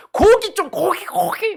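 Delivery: loud, high pleading wail; hammed-up clamouring; mock craving. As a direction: beg like a starving crowd. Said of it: "그걸 막 생각하면서 막 하다가".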